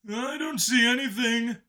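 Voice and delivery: high alien voice; defensive Howler. A narrator's reading. Second guard defending himself to the lead, high. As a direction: answer back defensively.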